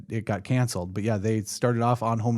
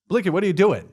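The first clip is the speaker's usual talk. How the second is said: quoted movie line; 6 semitones higher, 4 dB louder, faster than usual. Retold or imitated.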